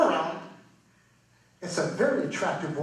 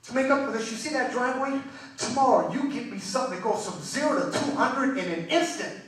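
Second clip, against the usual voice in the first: higher-pitched mild anger; an acted wife laying down an ultimatum; mock-angry wife, pitched up; 5 semitones higher than usual. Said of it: "She gets angry".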